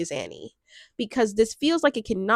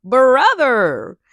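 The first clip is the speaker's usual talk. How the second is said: excited; 4 semitones higher, 10 dB louder than usual. Real, not acted. Dramatic opener to viewers.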